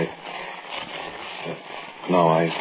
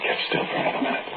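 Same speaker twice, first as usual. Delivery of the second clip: story narration. A narrator's reading.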